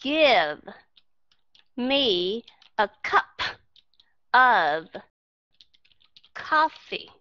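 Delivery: each word isolated with a pause after it; slow, over-separated demonstration. Shown as a demonstration. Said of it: "Mà họ không nói là".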